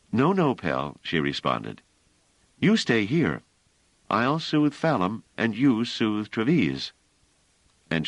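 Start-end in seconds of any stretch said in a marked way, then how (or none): 0.1-1.0 put-on higher, gentle voice of Bliss comforting a scared child; Bliss soothing. Bliss refusing Pellerat. 2.6-6.9 put-on higher, gentle voice of Bliss comforting a scared child; Bliss soothing. Bliss instructing Pellerat.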